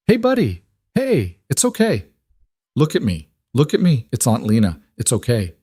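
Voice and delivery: put-on high, gentle voice soothing a scared child; aunt soothing a frightened boy, gently. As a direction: coax him back to calm.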